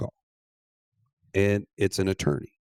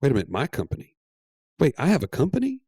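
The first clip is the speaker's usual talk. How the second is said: stunned disbelief; 4 semitones higher, faster than usual. Retold or imitated. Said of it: "She's like".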